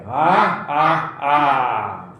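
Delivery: slow, acted "ha ha ha"; mock laugh, falling away; children's laughter. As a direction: imitate laughing children with stretched ha's. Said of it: "જોઈને હસવા માંડે".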